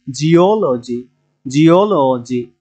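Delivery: জিওলজি slowly, middle ওল stressed; drawn-out teaching জিওলজি, weight on its second syllable. Shown as a demonstration. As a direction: lean on the ওল of জিওলজি, then fall away. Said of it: "শেষের দিক থেকে তিন নাম্বারে এসে stress".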